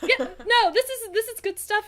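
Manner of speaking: sounds like a rapper. Acted. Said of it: "You sound like a rapper".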